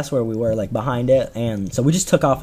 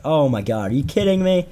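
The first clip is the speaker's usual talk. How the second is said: imitating a pissed-off buddy, pitch climbing; pissed off, retold; 2 semitones higher than usual. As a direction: act out a friend's exasperated disbelief. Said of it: "he got so pissed".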